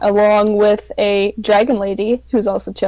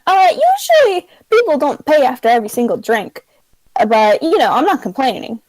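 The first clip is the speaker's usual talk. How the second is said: bartender voice; 3 semitones higher than usual. Acted. Bartender remarks on payment.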